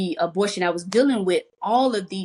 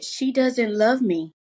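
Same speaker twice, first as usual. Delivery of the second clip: a touch of tearful, slow and a bit higher; retold crying; 4 semitones higher, slower than usual. Calling her husband from the car, a hint of tears. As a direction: lightly relive the tearful phone call. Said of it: "I called my husband crying".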